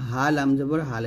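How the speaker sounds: "হা লাম জবর হাল" with a light, thin h. Shown as a demonstration. Teacher showing learners the thin letter, light pronunciation. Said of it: "এটা পাতলা করে বলবেন".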